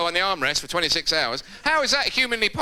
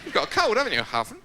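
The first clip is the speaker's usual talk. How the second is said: needling accusation; 5 semitones higher than usual. Retold or imitated. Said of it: "get handy Andy and go".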